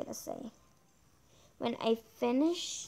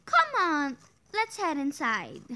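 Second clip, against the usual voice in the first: put-on louder first try at babysitter voice; hint of a bossy babysitter; 4 semitones higher, 5 dB louder than usual. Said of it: "So that's gonna be the voice".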